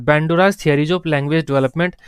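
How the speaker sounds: slow dictation. Shown as a demonstration. Teacher dictating a heading.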